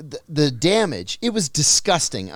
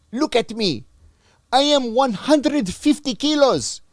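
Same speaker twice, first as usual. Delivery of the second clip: indignant prisoner; 9 semitones higher, 6 dB louder than usual. Retold or imitated. Wounded heavy prisoner protests.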